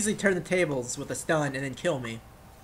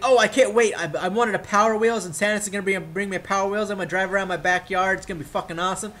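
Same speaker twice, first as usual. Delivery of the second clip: lightly acted Christmas anticipation; a touch raised and eager; mild kid excitement; 3 semitones higher than usual. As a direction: gush a little, like a kid awaiting presents. Acting a child awaiting Christmas.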